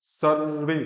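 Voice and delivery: सर्वे with a half र, no vowel after it. Shown as a demonstration. Teacher correcting the half र in सर्वे. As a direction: clip the र in सर्वे. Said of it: "र आधा है".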